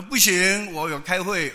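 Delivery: high, loud curt no; blunt refusal. Retold or imitated. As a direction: snap back a flat refusal. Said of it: "她". (女儿高声干脆地拒绝)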